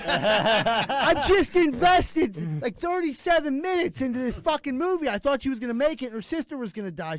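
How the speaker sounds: high, loud, laughing protest; complaining to his girlfriend who spoiled the film, high laughing protest; exasperated protest. Retold or imitated. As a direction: plead through a laugh, all worked up.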